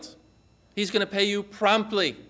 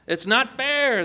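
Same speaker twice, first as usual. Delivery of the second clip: higher-pitched, indignant complaint; mock shouted protest; 5 semitones higher, slower than usual. Early workers to the vineyard owner, mock shouted protest. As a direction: protest it high, hurt and indignant. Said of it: "they shouted".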